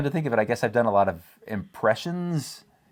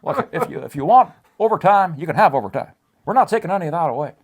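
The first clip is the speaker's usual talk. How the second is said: higher, louder mock presidential reassurance; Obama impression; 7 semitones higher, 5 dB louder than usual. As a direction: play the boss-as-president promising overtime. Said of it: "Can you do it in Obama?".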